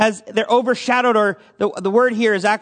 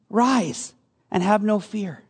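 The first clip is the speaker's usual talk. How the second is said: gentle reassurance; 4 dB quieter, slower than usual. Acted. Repeats Jesus' words, savoring them.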